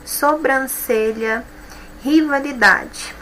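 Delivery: words stretched slowly, each stressed syllable marked; slow stressed demo. Shown as a demonstration. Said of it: "a última sílaba que é mais forte". (palavras devagar, marcando a sílaba tônica)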